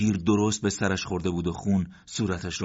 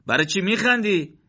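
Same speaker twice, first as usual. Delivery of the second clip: raised, louder wondering voice; puzzled question; 13 semitones higher, 5 dB louder than usual. Acted. Morteza asks Karampour why he laughs, raised puzzled voice.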